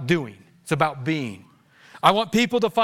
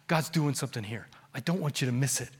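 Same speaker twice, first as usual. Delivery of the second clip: soft, low gentle coaxing; outwardly restrained; 7 semitones lower, 9 dB quieter than usual. Acted. Pastor outwardly urging his church, soft and restrained. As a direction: hold it back, very softly. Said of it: "And outwardly, I'm like".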